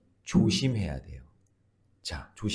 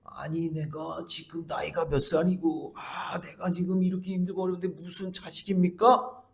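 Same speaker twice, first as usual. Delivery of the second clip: doubting Zechariah; 7 semitones higher than usual. Retold or imitated. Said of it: "불신의 말을 하고".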